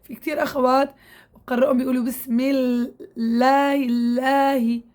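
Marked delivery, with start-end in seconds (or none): 2.0-4.8 الله said very slowly, tongue pushed out past the teeth; tongue-out error demo. Shown as a demonstration. Teacher imitates sisters who push the tongue out. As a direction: mimic the mistake of pushing الله out. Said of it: "بيطلعوا لسانهم لبرا".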